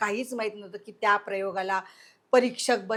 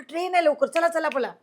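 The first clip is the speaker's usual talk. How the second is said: urgent call to run; 6 semitones higher than usual. Retold or imitated. Retold urging to run for train.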